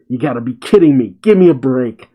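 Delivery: fast, rising to a loud outburst; crying out. Acted. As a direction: blurt it out, fed up. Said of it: "Boruto cries out".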